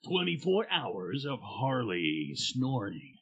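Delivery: slow mock station tagline; mock radio slogan. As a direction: drag the slogan out like a jingle.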